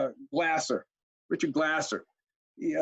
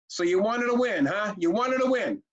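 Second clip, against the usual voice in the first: higher-pitched mock indignation; mildly voiced outraged mother, higher; retold angry outburst; 4 semitones higher than usual. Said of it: "Lady gets mad".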